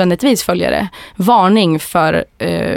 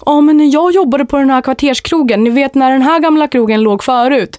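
put-on Stockholm accent; 4 semitones higher than usual. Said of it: "en sån riktig råttan i pizzan-historia som man alla har hört".

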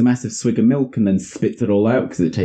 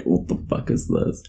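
breathless whisper, disgusted; whispered curse; 12 semitones lower, 7 dB quieter than usual. Retold or imitated. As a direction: hiss it under your breath. Santa disgusted, muttered.

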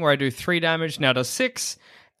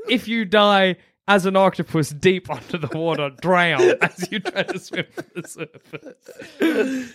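laughing; 2 semitones higher than usual. Real, not acted. Teasing friend's octopus dying.

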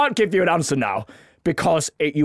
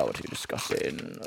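soft, lower unvoiced whisper; whispered question; 13 dB quieter than usual. Real, not acted. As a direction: breathe the question almost to yourself. Santa asks under his breath.

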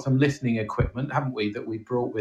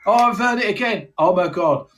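mock panic; 9 semitones higher, 4 dB louder than usual. Mock fright, fast.

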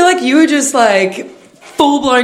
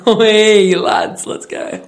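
mock laddish call; slower than usual. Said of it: "instead of being like".

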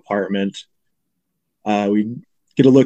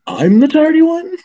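Cable Guy impression; 5 dB louder than usual. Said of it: "Jim Carrey's like".

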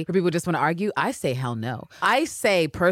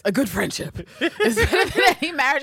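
much higher, laughing through the line; Elizabeth, laughing; 12 semitones higher than usual. Retold or imitated. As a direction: deliver it as a prim, amused maxim. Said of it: "Elizabeth says".

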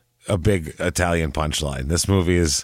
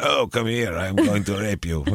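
mock Italian lover; 3 dB quieter than usual. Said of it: "Pepe Le Pews running around".

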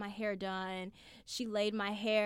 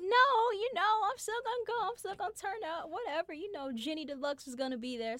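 stubborn whine; 11 semitones higher, faster than usual. Retold or imitated. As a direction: whine that you're still going. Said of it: "So I'm like".

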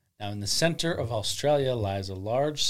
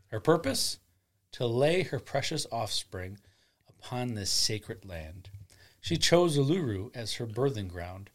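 solemn legend narration; grave ancient myth telling. A narrator's reading. Myth storytelling.

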